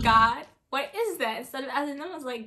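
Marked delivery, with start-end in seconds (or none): 0.0-1.4 alarmed. Retold or imitated. Scared by the bear noise.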